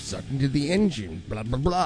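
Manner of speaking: very low mumble under the breath. Retelling how a woman muttered while looking at something; imitating mumbling under breath. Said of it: "she's just like mumbling under her breath".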